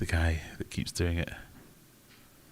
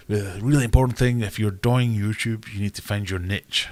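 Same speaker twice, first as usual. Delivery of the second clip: hammed-up YouTuber, DOY-ING and NITCH; loud mock YouTuber; 3 semitones higher, 7 dB louder than usual. Mocking a YouTuber's advice with loud DOY-ING.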